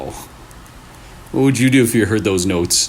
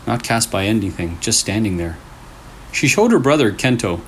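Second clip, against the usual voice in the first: creepy story narration. A narrator's reading. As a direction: draw the listener into a spooky tale. Reads second creepy story.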